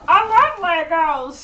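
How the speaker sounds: hammed-up delight; mock gushing. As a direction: gush it slowly and loudly. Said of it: "we did see this and go".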